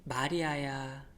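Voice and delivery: 마리아야 drawn out slowly and gently, fully voiced; slow tender call. Shown as a demonstration. Jesus calling Mary by name, slow and tender. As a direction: stretch 마리아야 out lovingly. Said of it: "여러분".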